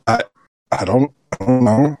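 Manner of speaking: glitchy, digitized mic sound; robotic voice. Real, not acted. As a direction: voice breaking up like a robot. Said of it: "You sound so robotic".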